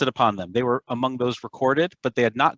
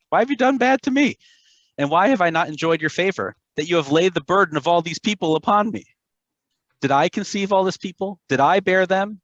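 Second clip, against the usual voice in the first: exasperated complaint; 5 semitones higher than usual. Acted. Moshe protests to God about complaining people, exasperated and pitched up. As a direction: let the fed-up leader vent at God.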